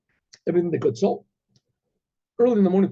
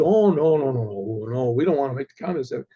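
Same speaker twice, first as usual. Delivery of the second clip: emphatic "oh no", then lower and quicker; hasty retreat; 4 semitones lower than usual. Retold or imitated. Cossacks refusing to please communists, hasty backing down. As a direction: back off in a mock hurry.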